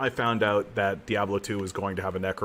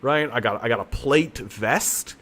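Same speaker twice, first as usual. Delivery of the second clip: mock proud; 3 semitones higher, slower than usual. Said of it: "This lady's just like".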